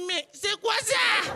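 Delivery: slow, high astonished question; amazed disbelief. Retold or imitated. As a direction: stare and ask, stunned. Choc devant un Chinois musclé. (étonnement lent et aigu)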